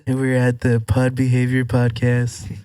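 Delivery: bad Donald Trump impression. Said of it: "that's a bad accent".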